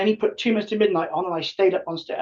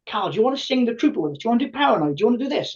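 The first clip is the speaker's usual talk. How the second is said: eager asking; 5 semitones higher, faster than usual. Retold or imitated. Bands asking him to sing.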